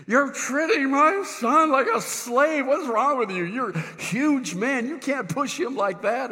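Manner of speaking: high-pitched mock scolding; fussing dad. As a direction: imitate an indignant father telling someone off. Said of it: "fussed at the guy and says".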